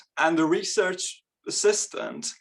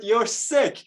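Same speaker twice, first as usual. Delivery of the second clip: imitated disgusted woman; 8 semitones higher, 3 dB louder than usual. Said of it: "She said".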